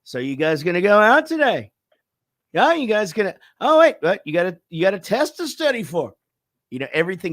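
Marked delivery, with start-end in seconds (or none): 0.0-6.1 Pittsburgh dad lilt, pitched up; Pittsburgh accent, sentences going up. Retold or imitated. Dad chatting with Pittsburgh family, upward-lilting Pittsburgh accent. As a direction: swing each phrase upward in Pittsburgh talk. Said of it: "every sentence goes up".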